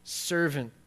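a king condemning the unforgiving servant; stern rebuke. Retold or imitated. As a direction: drag out the accusation with weight. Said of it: "the master called the servant in and he said".

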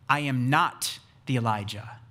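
firm "not", set apart by a pause; emphatic denial. Retold or imitated. Preacher voices John answering the religious elite, emphatic denial. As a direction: stress "not", then pause briefly. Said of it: "the emphatic nots of John".

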